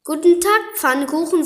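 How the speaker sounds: high, loud hare greeting. Acted.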